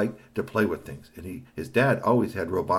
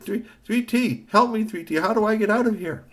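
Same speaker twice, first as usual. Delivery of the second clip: high robot voice begging for help; pleading robot; 14 semitones higher, 5 dB louder than usual. Acted. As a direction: call for rescue from the dark.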